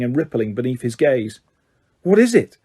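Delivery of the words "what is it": asked shakily. A narrator's reading. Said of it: "Harry asked shakily".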